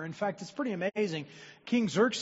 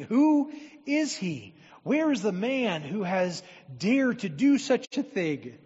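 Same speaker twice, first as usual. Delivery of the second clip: angry king; 2 semitones higher, 6 dB louder than usual. Acted. Furious king demanding answers.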